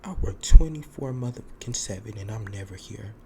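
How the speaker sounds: loud, indignant snap at the roommate; retold angry outburst. Narrator quoting her outburst at the roommate, loud and indignant. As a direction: fire it back, offended and loud. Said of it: "And I said".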